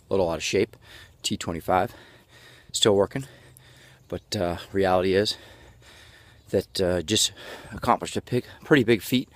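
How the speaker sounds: winded, catching breath between words; puffing while walking. Real, not acted. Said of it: "Why am I breathing so hard?".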